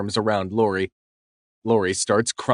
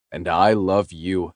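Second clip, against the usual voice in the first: slow, lower blissful declaration; 3 semitones lower than usual. Acted. Man telling girlfriend he loves her, slow blissful. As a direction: savor each word. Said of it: "I say in bliss".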